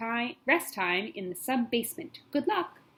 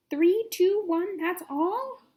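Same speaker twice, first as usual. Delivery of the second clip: excited; 10 semitones higher, 4 dB louder, much slower than usual. Acted. Girl excited at counting.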